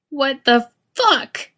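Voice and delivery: high, slow, breathless shriek. A narrator's reading. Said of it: "Misha shrieks, loud and out of breath".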